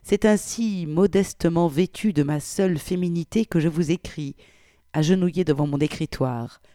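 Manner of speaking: put-on expressive reading of an old letter; dramatic reading aloud; story narration. A narrator's reading. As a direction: voice a prim, flustered wartime godmother.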